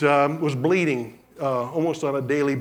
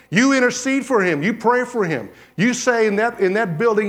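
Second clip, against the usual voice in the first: raised, forceful preacher's charge; emphatic exhortation; 2 semitones higher than usual. Retold or imitated. Preacher retelling his charge to a man quitting, emphatic. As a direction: send him back in with authority, punching each command.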